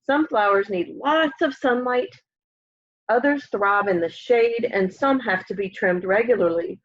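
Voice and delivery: gentle storybook reading voice; lively picture book read-aloud; reading to children. Acted. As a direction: read it aloud like story time for little kids.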